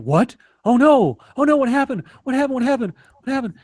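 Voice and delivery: high, loud mock panic; imitating friends panicking over the lost job; mock freaked out. Friends on Facebook panic over the job news, high and loud. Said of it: "everybody freaked".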